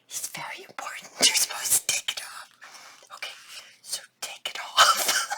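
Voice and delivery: very soft whispered squeak; laughed out of all voice; voiceless from laughing. Real, not acted.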